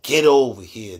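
loud, demanding summons; aggressive tone. Acted. Asking ladies about men's approach, aggressive tone. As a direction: order her over with force. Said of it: "like, the aggressive tone".

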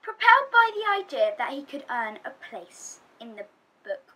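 loud, rousing storytelling; loud, rousing telling of a boy's big ambition; excited build-up. Acted. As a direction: pump it up like a grand quest.

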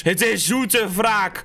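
savoring revenge. Acted. Vowing revenge to viewers.

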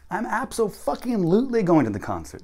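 high, loud "abso-fucking-lutely"; emphatic insistence. Shown as a demonstration. Teacher acts an example about the concert, emphatic "abso-fucking-lutely".

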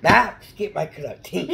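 loud, high call to Max; shouting Max. Pretend. Kid calling his dog Max in a loud, high Grinch voice.

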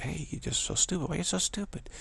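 high-pitched mock indignation; mad at adults. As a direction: imitate a kid fed up with adults. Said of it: "when I get mad at adults".

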